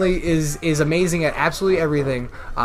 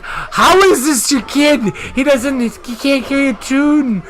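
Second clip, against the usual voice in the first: teasing the wife; 8 semitones higher, slower than usual. Retold or imitated. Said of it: "I've given her shit where I'm like".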